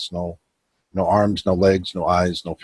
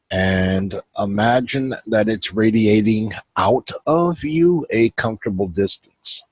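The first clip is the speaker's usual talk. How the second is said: measured meditation guide with long pauses; unhurried guiding voice, pausing between instructions; guided meditation. Acted. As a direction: lead them inward phrase by phrase, leaving room to breathe.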